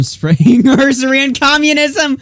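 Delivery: laughing through the words. Real, not acted. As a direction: read it while cracking up. Reading a comment, cracking up.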